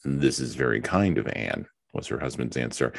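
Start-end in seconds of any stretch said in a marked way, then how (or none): 0.1-1.7 husband. Acted. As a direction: answer measured and a little reluctant. Husband answers Mary.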